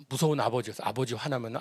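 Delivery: usual speaking voice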